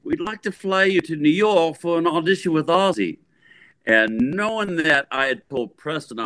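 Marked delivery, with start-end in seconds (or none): 0.0-3.2 high, bright put-on manager voice; a mock-sweet English manager calling; imitating Sharon. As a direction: voice Sharon higher on the phone. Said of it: "This is Sharon Arden, a singer's manager".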